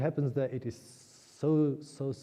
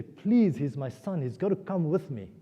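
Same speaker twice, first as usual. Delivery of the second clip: pleading; 3 semitones higher than usual. Retold or imitated. Taramati begging the Brahman for her son, pleading. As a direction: plead mildly, leaning on the first word. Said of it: "Taramati pleads to say".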